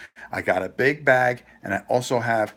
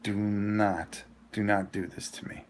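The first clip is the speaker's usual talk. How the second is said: pleading prayer; 2 semitones lower, 7 dB quieter than usual. Retold or imitated. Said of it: "I go".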